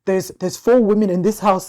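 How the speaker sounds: mock paternal grievance; imitating dad. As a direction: play a fed-up father. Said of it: "My dad's favorite line is".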